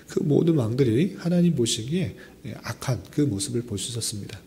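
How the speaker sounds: ordinary talk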